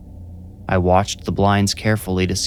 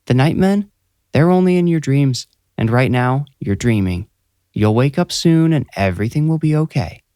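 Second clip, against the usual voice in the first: higher, tender, reassuring mother; reassuring mom; 6 semitones higher, 3 dB louder than usual. A narrator's reading. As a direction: comfort a scared child. Mom reassuring dreaming son.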